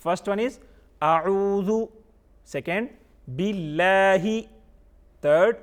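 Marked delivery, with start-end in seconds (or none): 1.0-1.7 اعوذ chanted slowly as a separate part; measured recitation of اعوذ, louder than talk; recited by parts. Shown as a demonstration. Teacher giving children the first part, recited slowly. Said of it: "یہ ہم نے by parts پڑھ لیا". 3.3-4.3 باللہ drawn out on a level note; slow, separate recitation of باللہ with a long vowel; recited by parts. Shown as a demonstration. Teacher giving children the second part, slowly recited. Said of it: "یہ ہم نے by parts پڑھ لیا".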